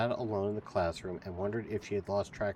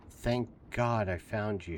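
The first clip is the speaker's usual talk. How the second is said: sighing; slower than usual. Acted. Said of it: "she sighed".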